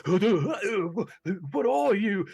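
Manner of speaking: loud, high, panicked cry; terrified dwarf. Acted. Terrified dwarf swinging wildly at his attacker, panicked high yell. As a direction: blurt it out fast in a frightened high voice.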